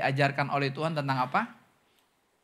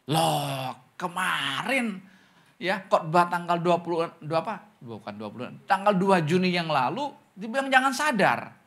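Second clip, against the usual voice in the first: mimicking a confused complaint; 4 dB louder than usual. Meniru jemaat bingung protes.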